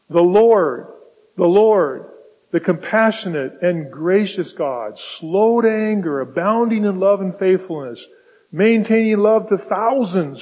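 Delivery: proclaiming scripture. Acted. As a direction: announce it like a herald from the pulpit. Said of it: "proclaiming, quote".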